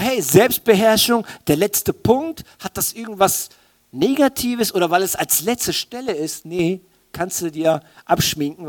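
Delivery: normal talking voice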